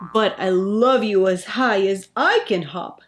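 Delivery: fond father hare, a touch fuller; gently proud big hare. Acted.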